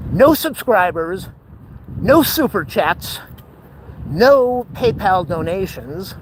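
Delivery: each "No" stretched out; slow list, hitting every "No"; mock lament. Real, not acted. Streamer lamenting to viewers, slow emphatic list.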